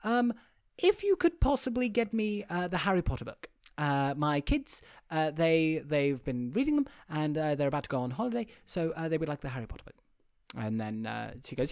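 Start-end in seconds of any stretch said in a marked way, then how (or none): 0.0-9.9 soft, halting imitation of a boss; quietly polite, with pauses between requests; soft-spoken boss. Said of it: "Meryl Streep is like".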